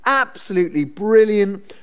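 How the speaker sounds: high, gushing mock enthusiasm; a sly uncle overselling the party; mock gushing Laban. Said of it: "He's like".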